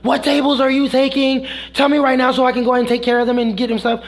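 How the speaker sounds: high, rushed imitation of yelling; retold yelling. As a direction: imitate a pushy coworker yelling demands. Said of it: "literally starts yelling".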